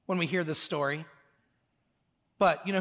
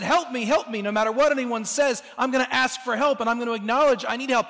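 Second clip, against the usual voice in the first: retold cry for help, raised and insistent; mild mock yell; 3 semitones higher, 3 dB louder, faster than usual. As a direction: imitate an urgent plea without fully yelling. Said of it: "He just screamed and yelled and said".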